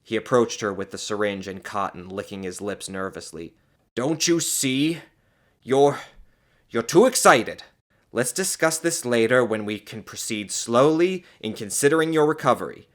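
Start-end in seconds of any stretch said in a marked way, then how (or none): 3.9-12.9 raised, halting, anxious pleading; apprehensive. A narrator's reading. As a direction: coax her nervously. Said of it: "he asked apprehensively".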